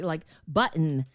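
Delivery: button with the t swallowed into a glottal stop; slow demo of a swallowed t in button. Shown as a demonstration. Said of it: "how they swallow their tea".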